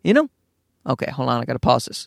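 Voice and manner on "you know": higher, breezy voice for the wife; lightly voiced dreamy friend; dreamy wanderlust. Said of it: "she's like".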